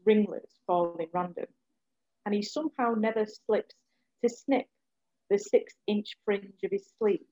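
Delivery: measured spoken word delivery; poem reading. Acted. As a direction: read it as a poem, with weight. Reads her poem aloud.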